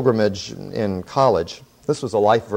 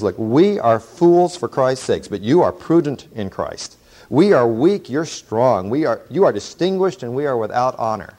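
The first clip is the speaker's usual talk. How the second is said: sarcastic. Acted. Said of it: "That's sarcasm".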